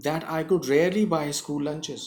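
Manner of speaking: very slow, deliberate reading; slow dictation. Shown as a demonstration. Teacher reading the text slowly to the class. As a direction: read it slowly for learners.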